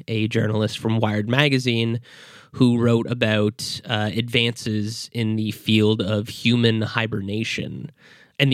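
stuffy nasal voice from a cold. Real, not acted. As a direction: talk through a blocked nose. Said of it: "I apologize if I sound a little nasal right now".

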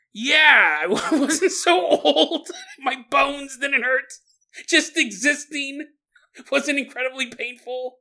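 high, slow croaky-feeling granny with a laugh; old grandma voice. Pretend. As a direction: creak it out like a frail grandma reminiscing. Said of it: "And she's like".

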